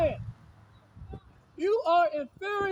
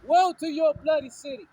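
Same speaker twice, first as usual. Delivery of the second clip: preaching at full force. Acted. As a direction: hurl the woe at the passer-by. Hurls scripture at listener.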